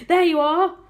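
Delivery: high, loud call; triumphant call. A narrator's reading. Police chief claiming he was right, loud call. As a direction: call it out to prove the point. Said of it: "called the chief of police".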